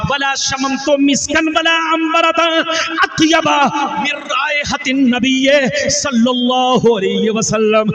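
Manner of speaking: climbing chant that breaks into a shout; soaring recitation. Acted. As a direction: lift the verse to a ringing call. Reciting verse climax to crowd.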